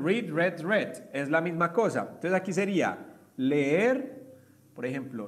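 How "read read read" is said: "read, read, read" as "reed, red, red"; first "read" with long ee, next two like "red"; three forms of "read". Shown as a demonstration. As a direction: pronounce "read, read, read" as present, past, participle. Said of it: "la pronunciación".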